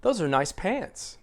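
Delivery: slow, with "pants" drawn out and stressed. Shown as a demonstration. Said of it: "Which one is the set phrase?".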